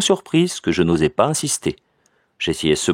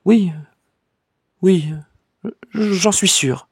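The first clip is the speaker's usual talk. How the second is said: higher, faltering voice, unsure; hesitant cousin; 12 semitones higher, much slower than usual. A narrator's reading. Cousin, lying to her cousin, hesitant and higher. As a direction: grope for the answer, then insist. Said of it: "elle hésita ... Puis elle répondit".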